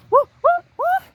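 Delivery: playful victory woos; cheering. Acted. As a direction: whoop like you just won. Charlene celebrates thumb war.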